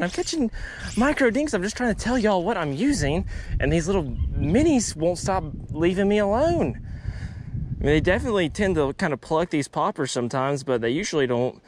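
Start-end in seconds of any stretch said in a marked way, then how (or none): 0.0-6.9 high, laughing complaint; amused exasperation. Real, not acted. Angler complaining the tiny bass won't stop biting, amused exasperation. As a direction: grin through the frustration.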